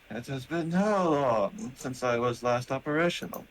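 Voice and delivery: a touch of puzzled robot; robot character. Acted. Robot waking and surveying the room, lightly puzzled robot voice. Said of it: "in his metallic voice".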